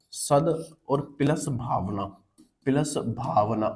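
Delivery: slow word split. Shown as a demonstration. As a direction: slowly split सद and भावना apart. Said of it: "इसको जब आप तोड़ोगे तो दो में टूटेगा".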